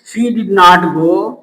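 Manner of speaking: very slow, each word spaced; slow dictation. Shown as a demonstration. Teacher building the answer for students, very slowly. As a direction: lay it down word by word. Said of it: "building the sentence".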